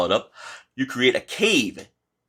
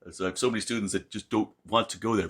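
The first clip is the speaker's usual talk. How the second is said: ordinary talk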